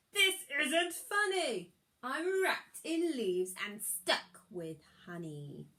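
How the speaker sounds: affronted villain protesting; outraged wizard. Acted. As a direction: splutter with fury at being trapped. Wizard wakes up trapped.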